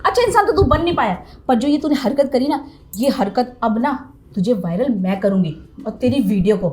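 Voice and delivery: indignant, emphatic tirade; heated telling-off; angry berating. Acted. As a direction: lay into him with disgusted reproach. Teacher berates student at length.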